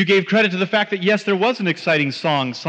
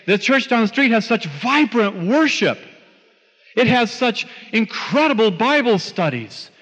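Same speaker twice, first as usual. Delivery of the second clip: imitating a higher-pitched enthusiast; gushing praise; 4 semitones higher than usual. Churchgoers praise the church down the street, imitated gushing enthusiasm. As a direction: rave about it like an impressed churchgoer.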